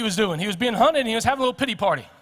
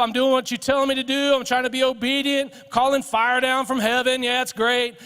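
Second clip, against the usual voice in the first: mildly indignant self-righteous complaint, pitched up; Elijah; 4 semitones higher than usual. Acted. Elijah complaining to God about lazy people, indignant. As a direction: protest to God in a raised, aggrieved voice.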